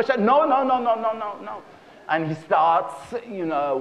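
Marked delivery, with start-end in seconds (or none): 0.2-1.6 string of quick high no's; hasty refusal. Acted. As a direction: wave off the suggestion urgently. Husband stops wife moaning too soon.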